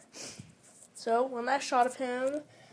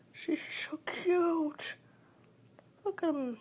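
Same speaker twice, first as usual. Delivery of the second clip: cute squeal; 6 semitones higher, slower than usual. Real, not acted. Cooing over her hamster.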